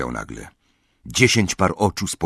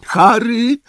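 gentle question; 5 dB louder, slower than usual. Acted. Mrs Weasley gently asks Harry about Hedwig, coaxing and high. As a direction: ask gently, tiptoeing around grief. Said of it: "zapytała łagodnie".

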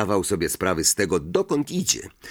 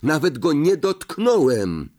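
angry denial; 8 semitones higher, 3 dB louder than usual. A narrator's reading. Harry angry retort.

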